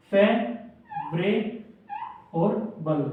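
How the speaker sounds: फे, व्रे, बल said apart with pauses; syllable split. Shown as a demonstration. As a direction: break फेवरेबल into three parts. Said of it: "फेवरेबल".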